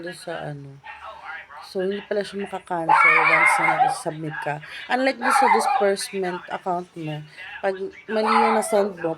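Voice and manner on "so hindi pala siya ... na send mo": louder, venting at the system; exasperated loud complaint; frustrated loud. Real, not acted. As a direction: raise your voice in frustration. Venting about maternity claim.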